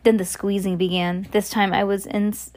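storyteller reading from a book; story narration. A narrator's reading. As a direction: read the tale aloud with measured drama. Reads a story aloud.

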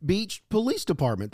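mock-gloating, drawing out "own"; smug boast. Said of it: "That's what he said".

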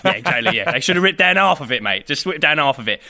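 shrugging Cockney lad; lightly put-on Cockney, laughing near the end; Cockney accent. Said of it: "I speak like a Cockney".

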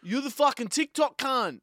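put-on high cheeky Eshay teen voice; aussie eshay slang. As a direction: call it out like a Sydney street kid. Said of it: "I'll be the Eshay".

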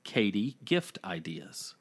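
soft unvoiced whisper, slowly; whispered secret label. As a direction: hush it like a secret note title. Naming the phone note.

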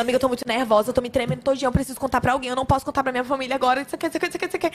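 agitated, hurried retelling of a nervous friend; nervous babble, rising into a repeated rush; mock nervous panic. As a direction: imitate a friend in a tizzy, words tumbling out.

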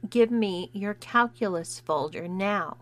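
slow, word-by-word command; intoning each word slowly. Acted. Bully to the new kid, slow and condescending. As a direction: spell it out as if to a dim child. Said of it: "She intoned each word slowly".

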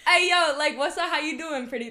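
smooth flirty greeting; talking to the gays. Acted. Podcaster demonstrating her flirting with gay women, smooth. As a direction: hit on her with a cool "hey, yo". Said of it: "when I'm talking to the gays".

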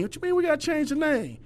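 high, fast retort of disbelief; incredulous retort. Retold or imitated. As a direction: fire it back in disbelief. Coach retorts to his players.

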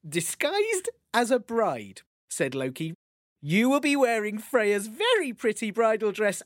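a sly Loki, stifling laughter; teasing Loki, holding back a laugh. Acted. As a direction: coax Thor while barely keeping a straight face. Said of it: "trying very hard not to laugh".

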